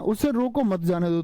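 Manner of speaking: group उसे रोको मत apart from जाने दो; pause after मत. Shown as a demonstration. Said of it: "यहां मैंने विराम ले दिया".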